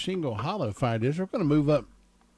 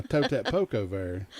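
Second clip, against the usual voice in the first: Southern dialect phrase; 5 semitones lower than usual. Shown as a demonstration. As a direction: quote "tote that poke over there" lower, in a plain Southern voice. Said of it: "what I'm saying by".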